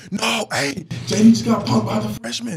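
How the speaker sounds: hammed-up locker-room jeering; mock taunting crowd. Teammates razzing him over the freshman, loud mock taunt.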